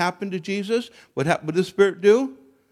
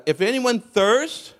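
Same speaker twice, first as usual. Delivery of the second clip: raised, slow proclaiming call; Jesus crying out; 6 semitones higher, slower than usual. Retold or imitated. Reading Jesus's words to the listeners as a raised proclaiming call. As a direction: call out to the crowd like a preacher. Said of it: "he's preaching it".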